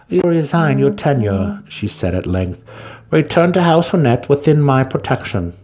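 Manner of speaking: a powerful drow matron laying down the plan; Santa Fe's commanding voice. Acted.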